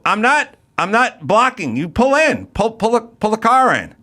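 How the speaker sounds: insist, exasperated; exasperated insistence. Retold or imitated. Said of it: "I go".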